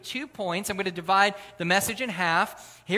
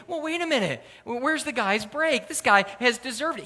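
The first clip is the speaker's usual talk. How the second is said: higher-pitched protest on someone's behalf; indignant objection; 4 semitones higher than usual. Acted. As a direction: argue for the guy's fairness. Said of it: "argue equality".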